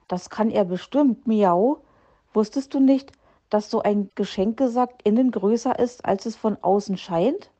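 a small cat bursting to show off the tidy shelves, meowing; eager kitten voice. Acted. Mauz the kitten speaking.

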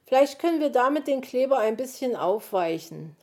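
high, loud, urgent calling; very agitated. A narrator's reading. Magpie orders the fox to fetch hot water, frantic. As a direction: call out instructions in a flap. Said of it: "in heller Aufregung".

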